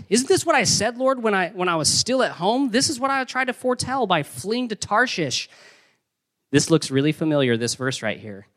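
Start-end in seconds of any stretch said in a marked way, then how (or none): 0.1-5.5 high-pitched, indignant protest to the Lord; Jonah's high, aggrieved complaint to God; angry Jonah. Acted. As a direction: whine it up high like a sulking prophet. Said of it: "he became angry".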